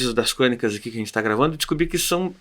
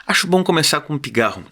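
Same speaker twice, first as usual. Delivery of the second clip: deliberate literary reading with falling cadences; chronicle reading. Acted. Reader opens the hidden subject's monologue, deliberate chronicle reading. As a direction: announce each phrase, then pause.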